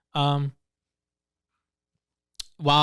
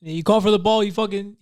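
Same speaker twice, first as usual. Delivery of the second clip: loud, raised voice yelling at teammate; gamer rage yell; 5 semitones higher, 4 dB louder than usual. Retold or imitated.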